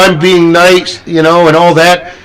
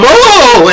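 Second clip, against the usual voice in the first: high drawn-out mock "ohh"; imitated cry of surprise, pitched up; startled "oh"; 9 semitones higher, 3 dB louder than usual. Imitating haunt guests reacting, high startled "oh".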